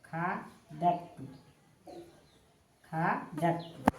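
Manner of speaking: very slow, drawn-out syllables; slow dictation. Shown as a demonstration. Teacher writing out a Sanskrit verb for students, slow dictation. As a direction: stretch the word out as if writing it.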